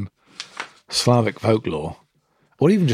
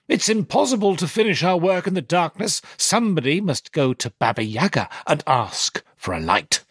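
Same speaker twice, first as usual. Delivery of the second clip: stepmother voice; 6 semitones higher than usual. Acted. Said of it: "she said in a loud voice".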